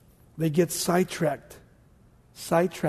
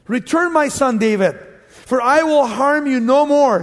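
voicing Saul; 5 semitones higher, 6 dB louder than usual. Saul calls David back.

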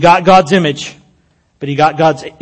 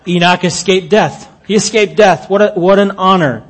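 louder, higher, emphatic exclamations; excited marvelling; 4 semitones higher, 4 dB louder than usual. Real, not acted. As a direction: preach it with rising amazement, punching each phrase. Preacher marvels at Enoch escaping death.

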